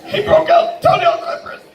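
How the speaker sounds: incredulous shout. Real, not acted. Comic telling the crowd, high incredulous laughing shout. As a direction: shriek it in disbelief. Disbelief at steam room story.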